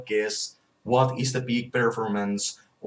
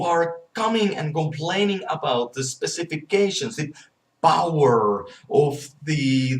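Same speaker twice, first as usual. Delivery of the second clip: angry rant; 3 semitones higher than usual. Real, not acted. Insulting complainers.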